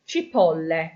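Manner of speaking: "cipolle" ending clearly in -eh; chi-POL-leh, stress the O, finish on E; plural ending e. Shown as a demonstration. Teacher showing the plural "cipolle", ending on E. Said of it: "From the A to the E".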